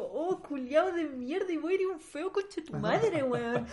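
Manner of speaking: high, loud, slow outraged yell; furious. Real, not acted. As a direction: spit it out in outrage. Furious reaction to Charles' insult.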